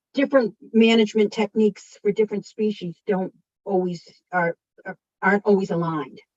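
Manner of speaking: stumbling, halting, stuttering, repeating the same words. Trying to explain a complicated point, stuttering. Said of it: "I'm stuttering here".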